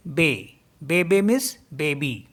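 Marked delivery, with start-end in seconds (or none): 0.1-1.0 बे बे with two short e sounds; French bébé. Shown as a demonstration. Teacher modeling French bébé. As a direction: say बे बे evenly. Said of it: "इसको पढ़ेंगे हम बे".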